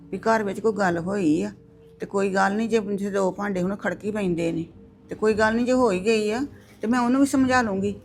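mother soothing a crying daughter-in-law, loud and insistent. Acted. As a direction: talk her down loudly and kindly.

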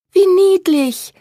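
high, slow gushing delight; delighted cry. A narrator's reading. Daughter hearing about kittens, high delighted cry. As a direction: squeal it out over the kittens. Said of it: "rief Elise begeistert".

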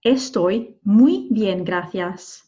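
slow "Estoy muy bien, gracias", "muy" stretched; unhurried "Estoy muy bien, gracias"; model sentence. Shown as a demonstration. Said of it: "We could say".

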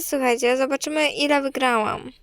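ordinary delivery

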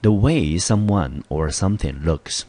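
The way someone or something looks, read slowly and clearly; slow read-aloud. Shown as a demonstration. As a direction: read the definition slowly for students. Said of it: "我们看英文解释". (慢速朗读英文释义)

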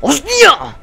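high, loud wail of frustration; real gamer rage; exasperated scream. Real, not acted. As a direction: shriek at dying over and over. Screams at repeated deaths.

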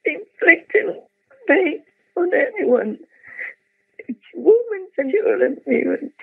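pleading in pain at a crazy world; tearful, anguished. Real, not acted. Lamenting the war to the disciples, anguished and tearful. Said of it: "I cannot help crying".

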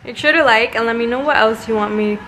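breathless after chasing the puppy; out of breath. Real, not acted. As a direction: talk while catching your breath. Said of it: "so out of breath".

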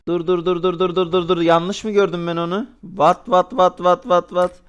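rapid stunned repeats; can't believe what you see; surprised. Real, not acted. Disbelief at donation.

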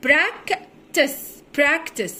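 براكتس with the first c as a hard k. Shown as a demonstration. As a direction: break براكتس after "prak", then say it whole. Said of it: "والسي بنطقها بصوت حرف الكي الأولى".

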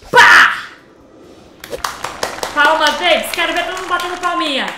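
loud hype to the audience; cheering shout. Real, not acted. Youtuber hyping viewers to clap, loud cheer. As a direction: shout for applause.

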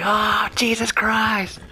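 high, slow, breathless whisper of a woman shot in the foot; mock pained cry. Gamer retelling the Hateful Eight scene, high whispered mock cry. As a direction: gasp it out like she's just been shot. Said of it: "and then she's like".

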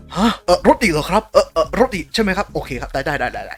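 taken aback, hesitant polite questions, then giving in; startled stammer, loud then dropping to compliance; lightly voiced studio. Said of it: "เจซี Staff". (เลียนเสียงสตูดิโองงแต่ยอม)

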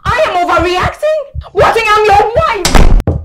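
tearful disbelief. Acted. Wife upset, accusing husband.

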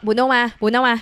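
imitating calling a pet cat. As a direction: call Bruno over from across the room. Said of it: "บุเวลาเรียกบรูโน่ก็".

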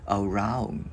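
"Around" landing the tongue on the N; tongue-landed N. Shown as a demonstration. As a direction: lift the tongue to close "Around" on N. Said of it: "đáp lưỡi chữ N lên". ("Around", đáp lưỡi lên ở âm N)

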